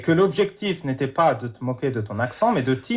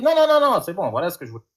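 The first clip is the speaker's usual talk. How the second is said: hypothetical protest; faster than usual. Pretend. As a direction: play the harasser's fake dismay, overdone then flat. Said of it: "bah, j'aurais dit".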